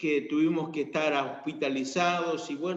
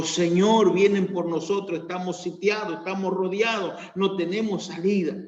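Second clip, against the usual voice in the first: loud, alarmed cry of a servant; frightened servant; 4 semitones higher, 4 dB louder than usual. Acted. Scared servant crying out to his master, alarmed. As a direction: call out as if surrounded by enemies.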